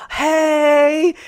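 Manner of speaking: high, loud bright greeting; fake friendly hey. Mom waving at the angry driver, high cheery hey. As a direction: greet her like an old friend. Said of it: "She's like".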